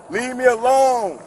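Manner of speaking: slow, drawn-out demand to be left; real exasperated order to back off; angry demand. Real, not acted. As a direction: draw out each word, fed up. Telling police to leave him.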